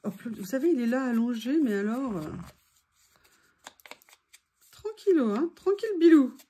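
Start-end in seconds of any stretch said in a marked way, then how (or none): 4.7-6.4 pet talk. Real, not acted. Cooing at the dog.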